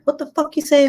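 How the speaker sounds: high-pitched, incredulous retold telling-off; mock outraged scolding. Mom to son who said the F word, mock outrage.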